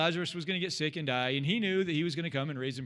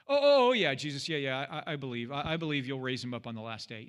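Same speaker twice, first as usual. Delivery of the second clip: flustered Martha. Retold or imitated. Martha flustered answering Jesus.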